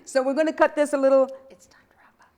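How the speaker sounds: quick whispered aside; whispering. Real, not acted. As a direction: whisper it off mic. Aside to crew during live show.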